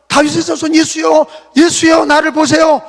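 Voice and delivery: desperate crying out. Retold or imitated. Blind beggar crying out to passing Jesus, loud desperate plea. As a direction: cry out to Jesus as if it's your last chance. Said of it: "막 소리를 지르는 거예요".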